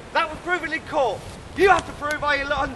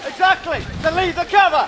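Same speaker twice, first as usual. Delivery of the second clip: raised, exasperated order; angry; 3 semitones higher, 3 dB louder than usual. Real, not acted. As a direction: snap it out louder. Gamekeeper shouting at saboteurs.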